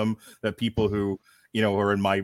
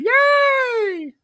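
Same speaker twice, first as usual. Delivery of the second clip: excited cheer; 8 dB louder than usual. Acted. Cheering the host in.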